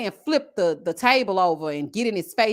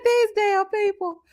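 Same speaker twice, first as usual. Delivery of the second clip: higher, slow, laughing disbelief; laughing exasperation; 9 semitones higher than usual. Retold or imitated. Rereading misheard comments, laughing in exasperation. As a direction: drag it out through a laugh.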